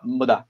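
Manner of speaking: "me dá" with "me" swallowed to a bare m sound; European unstressed me. Shown as a demonstration. Explaining why European Portuguese can't front the pronoun, unstressed "me" in "me dá". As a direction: run "me dá" together as "mdá", European style. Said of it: "esse pronome é átono em português europeu".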